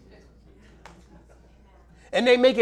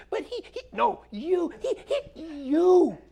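put-on much higher whiny kid, pointing at his brother; whining child; 8 semitones higher, slower than usual. Child blaming his brother to father, high whiny mimic. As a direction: whine and blame like a child. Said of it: "I tell my kids that".

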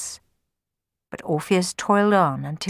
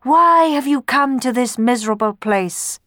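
higher, louder ghostly cry; a raised, keening ghost voice; 6 semitones higher, 4 dB louder than usual. A narrator's reading. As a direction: ghosts wail out their question. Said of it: "cried the ghosts".

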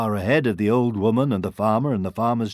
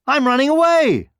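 high, loud gingerbread man voice; squeaky little character shouting; defiant cry; 7 dB louder than usual. A narrator's reading. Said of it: "he cried".

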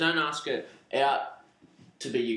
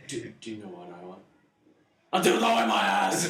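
hushed tease, then yelled; 6 semitones lower than usual. Pretend. Repeated setup then loud punchline.

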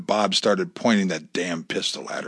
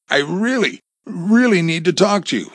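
raised, high-pitched urgent call; 10 semitones higher, 6 dB louder than usual. Acted. Visitor knocking at front door, calling out insistently. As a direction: call through a closed door.

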